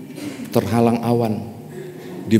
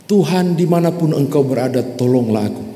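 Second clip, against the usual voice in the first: desperate plea to God; 5 semitones higher than usual. Acted. Climber cries to God.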